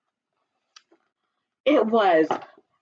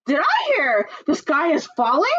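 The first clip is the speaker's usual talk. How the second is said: duck voice; 7 semitones higher than usual. Acted. Ducky Lucky asks.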